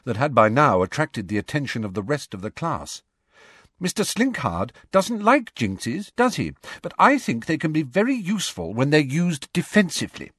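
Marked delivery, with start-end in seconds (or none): 3.8-10.3 clear carrying voice. A narrator's reading. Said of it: "clear, carrying voice".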